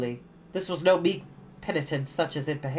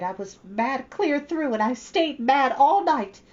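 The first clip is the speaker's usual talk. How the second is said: mock anger; 10 semitones higher, 4 dB louder, slower than usual. Anne recalls her anger.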